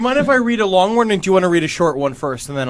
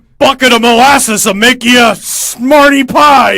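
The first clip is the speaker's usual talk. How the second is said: higher, louder folksy voice; folksy ghost woman; 4 semitones higher, 5 dB louder, slower than usual. Acted. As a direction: drawl out an old saying.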